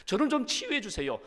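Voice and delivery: cling and beg, lightly dramatized; pleading prayer. Acted. Believer bargaining with God to be healed, pleading. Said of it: "하나님 앞에 매달려 기도합니다".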